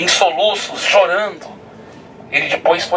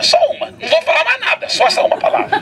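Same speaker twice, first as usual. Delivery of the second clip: nervous laughing; 14 semitones higher than usual. Retold or imitated. Brother repeats only one word.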